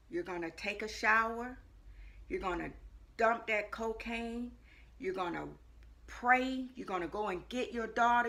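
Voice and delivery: measured, calm divine instructions. Retold or imitated. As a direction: give each step calmly, with pauses between. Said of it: "in this calm voice".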